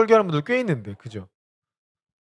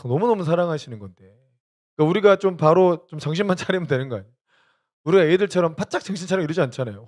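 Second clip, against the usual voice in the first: usual speaking voice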